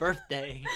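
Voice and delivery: "birthday" said as "birfday". Shown as a demonstration. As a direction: put an F for the TH in "birthday". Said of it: "they come out like F's".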